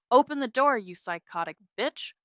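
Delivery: loud, high furious yell. Acted. Sister screaming through the apartment door at night, furious.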